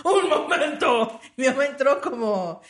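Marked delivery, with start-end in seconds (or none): 0.1-1.2 heroic mother. Retold or imitated. Retold mother storming in.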